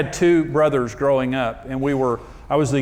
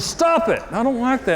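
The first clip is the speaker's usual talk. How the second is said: mimicking wife; 8 semitones higher than usual.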